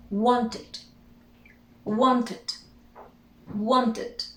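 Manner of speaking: "wanted" in two syllables, ending "tid"; "wanted" with a short "id" at the end; pronounced -ed ending. Shown as a demonstration. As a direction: model "wanted" carefully, pausing between repeats. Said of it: "we add the E D".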